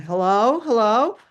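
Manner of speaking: acted phone greeting, rising questioningly; answering the phone. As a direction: pick up and check who's there.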